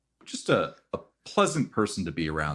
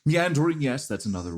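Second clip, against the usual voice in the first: squeaky agreeing; 9 semitones higher, 5 dB louder, faster than usual. Acted. NPC repeats with high pitch.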